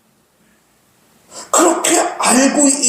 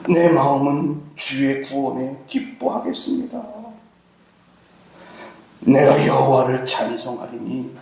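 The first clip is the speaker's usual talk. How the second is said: humble prayer; 4 semitones lower than usual. Acted. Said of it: "하나님께 기도해요".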